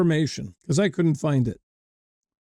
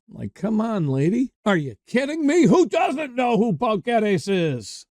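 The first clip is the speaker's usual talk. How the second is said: high, quick incredulous protest; playful disbelief, rushed and rising; mock incredulity; 3 semitones higher than usual. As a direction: jump up in pitch as if you can't believe she asked. Acts out his mock disbelief at waitress.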